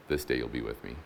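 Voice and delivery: low, soft promise; quiet reassurance. Acted. Jesus answering the thief on the cross, quiet reassurance.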